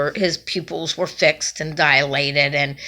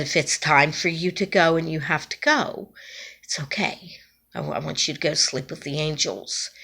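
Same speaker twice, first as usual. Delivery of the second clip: tender; 2 semitones lower, 7 dB quieter than usual. Retold or imitated. Tenderly releasing a dying man.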